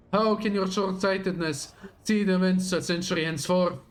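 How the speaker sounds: dramatic villain reading; grand, menacing speech to an enemy; villain monologue. Acted.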